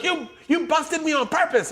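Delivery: high whiny voice; high whiny complaint. Retold or imitated. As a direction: whine it high. Bobby quoted whining.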